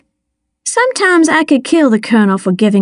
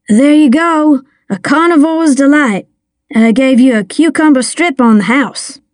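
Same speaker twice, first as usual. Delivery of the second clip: put-on slightly higher young server; lightly voiced eager boy; 4 semitones higher than usual. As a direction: lightly play a boy proudly serving a plate. Young Dale serving the plate.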